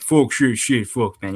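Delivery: imitated African American speech; put-on African American accent. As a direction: exaggerate the vowels in a mock African American accent. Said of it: "exactly like that".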